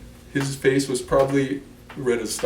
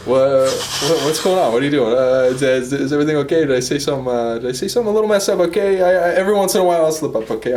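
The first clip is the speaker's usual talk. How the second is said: defensive; 6 dB louder than usual. Acted. Defensive outburst after laughter.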